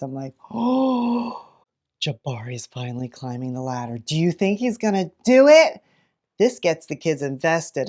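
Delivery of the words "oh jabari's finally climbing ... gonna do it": hushed breathless storytelling build-up; building anticipation. Shown as a demonstration. Teacher reading aloud to kids, hushed suspense. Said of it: "this is where I build anticipation".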